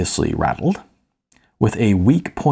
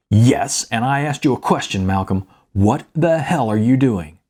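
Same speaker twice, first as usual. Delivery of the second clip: lightly voiced father demanding an answer; irritated dad insisting on his question; stern angry father; 2 semitones higher than usual.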